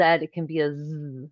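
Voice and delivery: z held out long; a long buzzing z; prolonged z. Shown as a demonstration. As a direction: stretch the z sound. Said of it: "a sound you can prolong".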